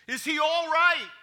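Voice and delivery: loud, high, urgent question from the king; anxious demand. Acted. King to the messenger, demanding news of his son, loud. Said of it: "the king demanded".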